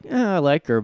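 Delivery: mock a skeptical fan weighing it up; lightly voiced skeptical fan; hesitant black woman. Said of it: "some black women are like".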